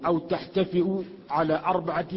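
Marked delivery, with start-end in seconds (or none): 0.1-1.0 تحتفئوا with a glottal stop before the final long u; with hamza. Shown as a demonstration. Reader listing four variant readings, تحتفئوا pronounced with hamza. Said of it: "تجتفئ بالهمز".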